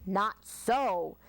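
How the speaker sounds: a sniffing, dismissive woodchuck; sniffy woodchuck. Acted. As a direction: brush it off with a sniff. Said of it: "sniffed the woodchuck".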